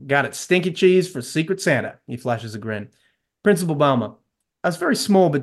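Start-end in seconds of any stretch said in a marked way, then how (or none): 0.1-2.0 put-on heavy American South accent. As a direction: do a terrible Texan accent. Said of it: "Dean, in a heavy American South accent".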